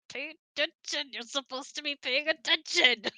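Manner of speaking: half-playful nagging to pay attention; mock stern whisper-scold. Bride nudging groom mid-ceremony, mock insistent. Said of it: "tilt my head like".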